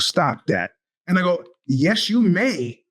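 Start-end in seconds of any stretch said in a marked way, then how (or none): 1.7-2.8 testy tone. Retold or imitated. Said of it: "They don't like my tone".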